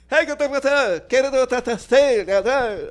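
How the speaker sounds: high, loud fake Latino accent; mock Latino accent. Kramer mocking a Latino at the garbage truck in a fake Latino accent. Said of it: "me acaban de ofender con su acento de español".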